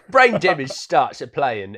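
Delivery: words stumbling out mid-giggle; laughing through it. Real, not acted. Podcast host botching her recap line, giggling. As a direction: try to say it but crack up laughing. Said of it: "no, this is terrible".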